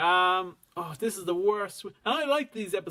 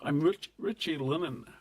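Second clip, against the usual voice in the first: lightly put-on Scottish accent; 2 semitones lower than usual. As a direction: ease into a Scottish character's accent. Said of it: "I have to get back into character".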